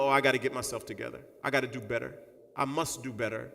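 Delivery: quick, low, soft muttering; hurried quiet vow to yourself; self-talk. Pretend. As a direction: mumble a resolution under your breath. Imagined self-talk seeing friend.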